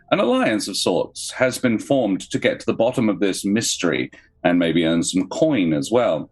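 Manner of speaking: dramatic scene-setting narration; story narration. Acted. GM reads opening scene.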